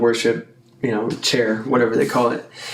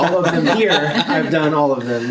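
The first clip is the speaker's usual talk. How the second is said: laughing; 3 semitones higher than usual. Real, not acted. Laughing at his own answer.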